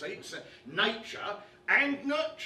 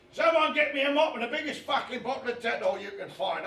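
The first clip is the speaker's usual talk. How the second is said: loud, raised call for help; shouted demand; 4 semitones higher, 8 dB louder than usual. Acted. Calling for someone to clean up after the kid, shouting. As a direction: yell out to whoever is in earshot.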